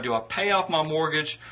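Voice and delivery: usual speaking voice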